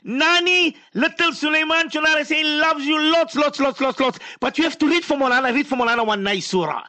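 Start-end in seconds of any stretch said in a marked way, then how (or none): 0.0-3.6 reach out to someone listening far away; calling out. Real, not acted. Host calling out on air to the child's grandmother, higher call.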